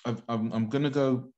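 talking with food in mouth; chewing while talking. Real, not acted. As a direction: mouth full, words round a bite. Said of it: "I'm eating".

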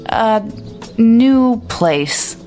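"A" ... "new place" met een duidelijke pauze ertussen; pause between words. A narrator's reading. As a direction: laat een stilte vallen na "A". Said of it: "with a pause between each word".

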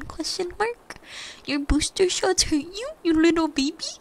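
high, loud mock-baby teasing; petty taunting. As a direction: taunt him like he's a whiny baby. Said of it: "I was being a complete little, like, petty bitch".

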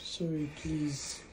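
soft, tender repeated apology; soothing. Real, not acted. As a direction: comfort someone who is crying, softly. Comforting a crying patient.

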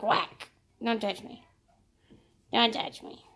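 a hint of a huffy cat; voicing the cat shoving her off. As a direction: play the cat swatting her away. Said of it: "she's like".

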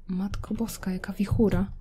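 soft, whispered "wichura"; hushed awe. Pretend. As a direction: breathe "jaka wichura" in a whisper. Storm, said again hushed. (szeptem, z przejęciem)

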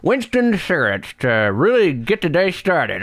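upbeat retro cigarette commercial; chipper 1950s ad. Pretend. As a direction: sell it like an old-time radio announcer. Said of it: "Brian, hold on".

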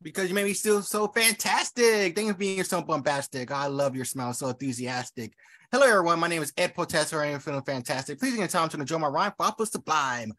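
light rhythmic chant of a rhymed greeting; rhyming intro. Acted. Poet greets the host and crowd in rhyme, chanted. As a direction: bounce through the rhymes.

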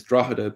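"Drogheda" as DRAW-huh-da, G softened to H; three syllables in "Drogheda", with a breath of H for the GH; official Irish pronunciation. Shown as a demonstration. Explaining the official form, "Drogheda" said DRAW-huh-da. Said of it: "the official Irish pronunciation is".

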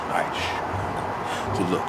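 slow hushed shush; drawn-out whisper. Real, not acted. Sneaking in to prank.

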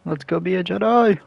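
excited. Real, not acted. Excited call while playing.

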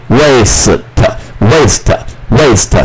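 "waste" sounded out as way-s-t; silent final E. Shown as a demonstration. Teacher sounding out for learners, silent final E in "waste". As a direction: say "waste" part by part, ending on t with E silent. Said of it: "一部发音".

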